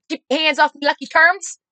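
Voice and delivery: high, loud jokey indignation; hammed-up mock protest; mocking guess. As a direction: tease mom with a silly quote. Mocking guess at mother's line.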